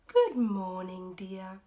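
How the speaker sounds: loud, slow, bright greeting; hearty wake-up greeting; cheery morning call. Acted. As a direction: sing out good morning. Mrs Bear waking cheerfully.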